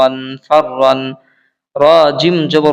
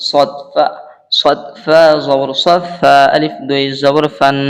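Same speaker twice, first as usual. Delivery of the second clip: slow spelling drill; slower than usual. Shown as a demonstration. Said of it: "দুইবার উচ্চারণ করতে হবে".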